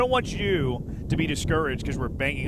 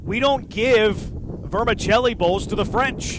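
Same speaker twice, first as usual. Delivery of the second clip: put-on Spanish accent; 5 semitones higher, 3 dB louder, slower than usual. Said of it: "Not sure why I said that with a Spanish accent".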